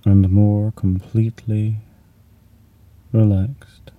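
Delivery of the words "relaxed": whispering. Acted. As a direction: breathe it out gently. Single word whispered.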